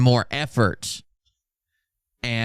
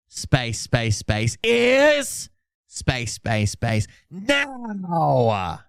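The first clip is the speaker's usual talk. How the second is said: dramatic mock reading; much slower than usual. Streamer doing a dramatic reading of Phil, swooping up and down. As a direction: ham it up like a prophecy.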